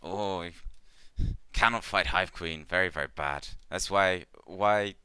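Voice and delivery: lightly voiced insect-like trader in broken English; a gentle creature trader, halting and simple; Clicknid merchant. The GM voicing Ikmar to the adventurers, lightly halting. Ikmar answers about Hive Queens.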